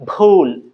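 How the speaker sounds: "ভুল" drawn out as b-hool; carefully aspirated "ভুল"; practice pronunciation. Shown as a demonstration. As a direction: press both lips, then breathe out a long "ভুল". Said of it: "practice করবো এইভাবে".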